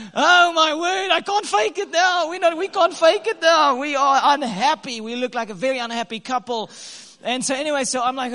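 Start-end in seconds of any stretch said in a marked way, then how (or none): 0.1-5.0 high, loud, slowed panic; hammed-up alarm at being seen; panicked inner voice. Husband spotted by churchgoer, loud high panic.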